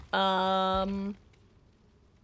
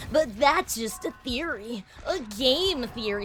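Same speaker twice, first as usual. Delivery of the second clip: slow, lightly voiced YouTuber sign-off; a weak stab at a dramatic reveal line; MatPat impression; 3 semitones higher, slower than usual. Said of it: "that was an awful MatPat impression".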